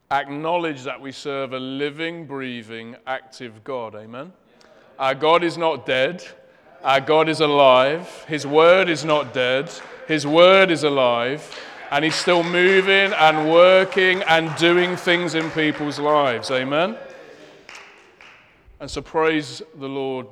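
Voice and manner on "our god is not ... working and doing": emphatic proclamation. Real, not acted. Preacher proclaiming to congregation.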